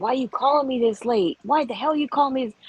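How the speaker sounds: mock annoyed scolding. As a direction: grumble at the late caller, lightly acted. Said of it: "you wanna get mad".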